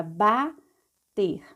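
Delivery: "bater" split slowly as ba, ter; measured teacher's reading of "bater"; syllable by syllable. Shown as a demonstration. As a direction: sound out "bater" with a clear gap. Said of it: "vamos ler passo a passo".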